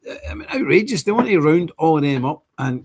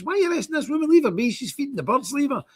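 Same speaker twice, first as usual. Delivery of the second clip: imitating the Jamaican man; 10 semitones higher than usual. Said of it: "he's complaining to the police".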